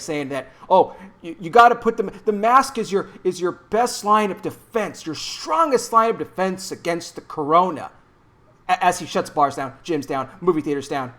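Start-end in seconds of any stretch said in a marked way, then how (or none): 0.7-7.9 lightly imitating a Midwestern accent; a hint of a Midwestern governor's accent; mock Midwestern accent. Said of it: "Midwestern accent going for him".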